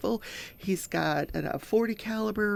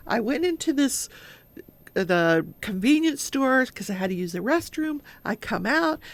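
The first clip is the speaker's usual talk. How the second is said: playing innocent; 5 semitones higher than usual. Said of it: "just playing the whole innocent thing".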